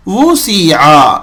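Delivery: slow وہ سی آ; slow syllable drill. Shown as a demonstration. Teacher spells the word slowly again. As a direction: draw out وہ سی آ. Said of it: "سین ہے یہ".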